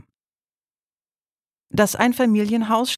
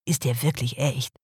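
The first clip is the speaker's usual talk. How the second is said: incredulous; 4 semitones lower than usual. Acted. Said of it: "fragte Peter ungläubig".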